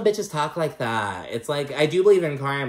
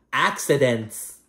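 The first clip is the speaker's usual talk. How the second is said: tag; much slower than usual. Retold or imitated. Retelling Adriana's one-word jab.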